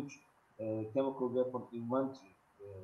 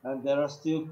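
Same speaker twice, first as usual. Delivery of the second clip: louder, projecting; 2 semitones higher, 7 dB louder than usual. Real, not acted. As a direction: speak up so they hear. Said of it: "uh, make it loud".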